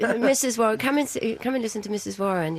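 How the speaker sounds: teasing Cockney Victorian gal; brisk London street call; Cockney accent. Retold or imitated. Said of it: "No one ever spoke like that".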